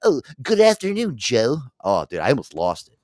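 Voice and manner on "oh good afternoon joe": high mock-polite greeting; sarcastic coworker. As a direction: needle him with fake politeness. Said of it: "he goes".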